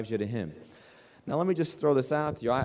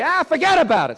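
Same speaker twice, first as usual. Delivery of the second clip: voice of the Lord; 11 semitones higher, 6 dB louder than usual. Retold or imitated. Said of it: "says the Lord".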